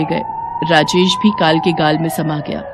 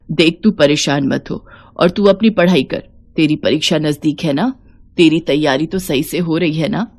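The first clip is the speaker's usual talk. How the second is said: lower, lightly voiced kind old woman; affectionate old mother-in-law; 4 semitones lower than usual. Savitri reassuring Seema about her exams, tender. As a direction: brush off worry, ask tenderly.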